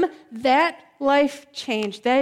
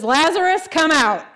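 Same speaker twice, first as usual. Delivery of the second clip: raised, louder call into a tomb; commanding call; 3 semitones higher, 4 dB louder than usual. Acted. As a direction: summon him out with authority. Jesus calls into the tomb.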